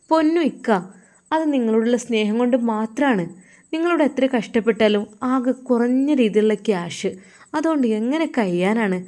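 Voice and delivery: coaxing wife. Acted. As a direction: coax him like a loving wife.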